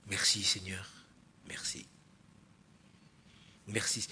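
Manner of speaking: hushed, low murmured thank-you to the Lord; soft thanks. Shown as a demonstration. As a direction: breathe the thanks almost silently. Shows a grateful prayer.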